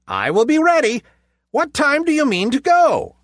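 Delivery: high eager pig question; little pig voice. A narrator's reading. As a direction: ask brightly, curious. Pig asks time.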